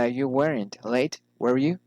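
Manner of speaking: "were you" lifted after a fall; falling then rising. Shown as a demonstration. Teacher models tag questions, falling then rising on "were you". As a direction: drop the statement, then raise "were you". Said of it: "falling or rising intonation".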